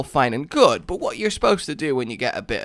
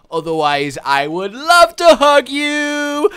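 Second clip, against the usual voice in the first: mock hug refusal; 2 semitones higher, 7 dB louder than usual. Voices someone refusing a hug.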